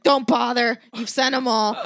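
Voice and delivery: firm retort. Retold or imitated. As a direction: shut the offer down flat. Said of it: "I was like".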